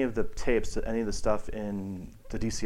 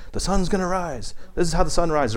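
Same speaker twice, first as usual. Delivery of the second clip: mock coconut shaker; 6 semitones higher than usual. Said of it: "you're like".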